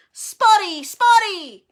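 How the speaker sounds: high, loud, jeering chant; yelling. A narrator's reading. Peeves chasing the sobbing Myrtle, yelling. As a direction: jeer it after someone.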